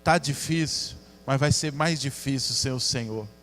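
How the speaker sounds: a touch of retold weeping; tearful prayer. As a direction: pray through tears, humbled. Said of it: "comecei a chorar".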